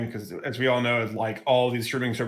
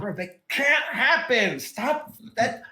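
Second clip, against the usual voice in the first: incredulous; 8 semitones higher, much slower than usual. Retold or imitated. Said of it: "and I'm like".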